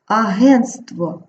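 "агентство" slowly, first T dropped, ahen-stvo; simplified pronunciation. Shown as a demonstration. Teacher modelling for pupils, "агентство" as ahen-stvo. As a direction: say "агентство" with N straight into STV. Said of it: "Одне ти випадає".

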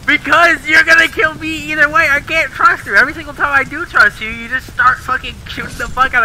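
exasperated accusing rant. Real, not acted. Player telling friend he can't trust him, exasperated. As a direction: pour out the grievance at a friend.

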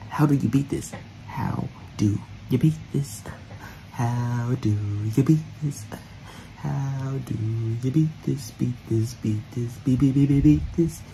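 muttering. Real, not acted. Muttering to self.

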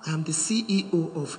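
man boasting. Retold or imitated. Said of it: "that's the man talking".

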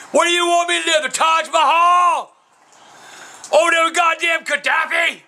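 high-pitched, shouted rant; real exasperated tirade; getting mad. Real, not acted. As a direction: yell it indignantly, dragging out key words. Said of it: "I'm getting mad".

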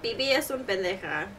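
mock Latina accent. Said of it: "We sound like white girls mocking Latinas".

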